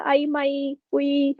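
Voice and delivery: soft, mock little cries of pain; imitating an ouch. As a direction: act out a stubbed-toe whimper, lightly. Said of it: "कुछ-कुछ ऐसे-ऐसे sound करते हैं".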